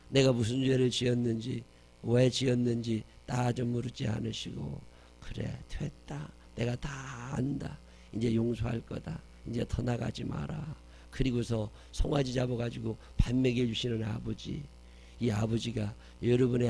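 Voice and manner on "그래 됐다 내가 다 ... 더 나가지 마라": softer and slow, tender forgiveness; gentle father's voice. Acted. The father forgiving his returning son, soft and slow. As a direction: speak it like a father quietly forgiving.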